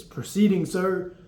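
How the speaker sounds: high, loud answer to the MTI; yelled reply. Retold or imitated. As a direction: shout it back as you run. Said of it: "what you're yelling".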